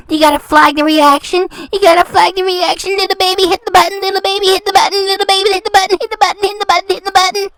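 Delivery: a mocking nursery chant to a crybaby; singsong taunt. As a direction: goad her over and over in a playground chant. Taunting her to flag the reaction.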